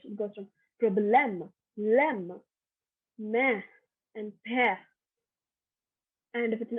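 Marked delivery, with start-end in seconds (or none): 0.8-4.8 "problème, lem, mais, pe" on falling open "eh"; French accent grave. Shown as a demonstration. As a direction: drop the tune on each è of "problème, lem, mais, pe". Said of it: "from a higher pitch to a lower pitch".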